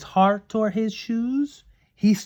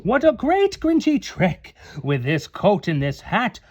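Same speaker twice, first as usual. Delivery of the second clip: chuckling; 5 semitones higher than usual. Acted. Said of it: "he chuckled and clucked".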